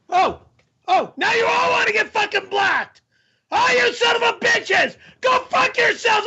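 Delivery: high, furious screaming tirade; screaming rage. Real, not acted. Streamer screams at trolling chat, furious and cracking. Raging at viewers trolling him.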